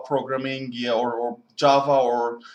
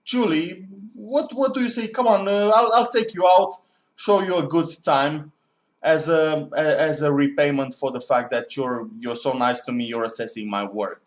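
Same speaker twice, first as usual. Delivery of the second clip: playful pitch; 3 semitones higher than usual. Pretend. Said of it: "And I'd go like".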